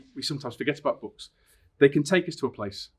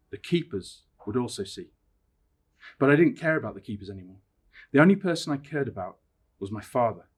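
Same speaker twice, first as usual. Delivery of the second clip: measured storytelling with dramatic pauses; story narration. A narrator's reading. Teacher reading Danny's lonely night in the wood, dramatic narration. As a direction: read it aloud expressively, letting each phrase hang. Reads story aloud to viewers.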